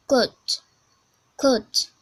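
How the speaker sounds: British "coat", short rounded vowel; demonstrated British "coat"; British accent. Shown as a demonstration. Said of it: "we are going to British English first".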